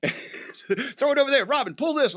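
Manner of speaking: high, slow cartoon orders to Robin; mock Batman commands. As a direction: drag out the commands like a silly cartoon.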